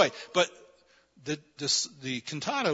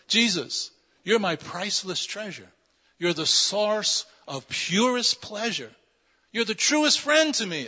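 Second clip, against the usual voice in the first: raised, emphatic reading of a hymn; hymn verse declamation; 5 semitones higher, 4 dB louder than usual. Acted. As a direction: declaim the verse to the congregation, building higher and louder. Reads hymn verse aloud.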